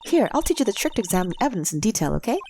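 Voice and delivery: put-on high, excited young girl; eager girl voice. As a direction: bubble over with eagerness.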